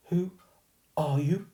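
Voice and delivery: put-on frightened but firm posh girl; posh girl demanding. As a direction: demand an answer. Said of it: "demanded Stella".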